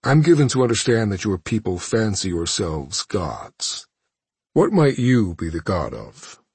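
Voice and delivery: measured imperious villain; cold villain voice. Acted. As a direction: speak down to a captive. Thanos mocks captive.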